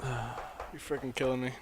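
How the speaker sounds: winded, sighing after a laughing fit; breathless from laughing. Real, not acted. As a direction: gasp it out, spent from laughing. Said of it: "Catch my breath".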